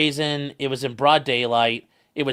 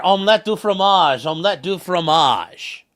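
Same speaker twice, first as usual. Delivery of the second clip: French chef; 3 semitones higher, 4 dB louder than usual. Retold or imitated. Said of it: "you can hear".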